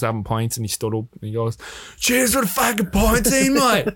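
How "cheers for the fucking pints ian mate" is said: high, slow, hammed-up Australian voice; imitated Australian toast. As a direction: call it across a pub, mock Australian. Russell toasting across the pub.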